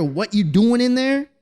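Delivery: drawn-out high call through the door; stern dad calling into the room. Retold or imitated. Dad calling through the door at his son, slow and high.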